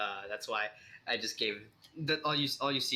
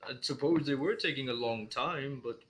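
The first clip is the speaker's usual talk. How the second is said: wavering creature voice, pitch swooping high; warbling spectator; 3 semitones higher than usual. Acted. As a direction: warble it like a pondering monster. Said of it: "warbling voice of the, uh, spectator".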